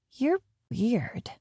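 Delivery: put-on breathy child whisper, face screwed up. A narrator's reading. Girl whispers to the nanny, unimpressed. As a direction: hiss it under her breath like a sulky kid.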